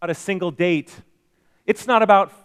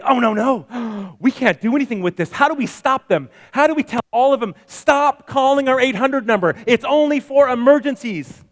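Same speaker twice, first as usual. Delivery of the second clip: higher, fast, gasping mock panic; 5 semitones higher than usual. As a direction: act out a flustered corporate panic. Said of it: "Now you could say".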